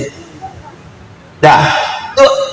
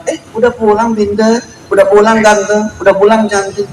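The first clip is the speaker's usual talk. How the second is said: put-on fond mother greeting her kid home from school, sweet; sweet mother's greeting; 4 semitones higher than usual. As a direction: coo it like a doting mother.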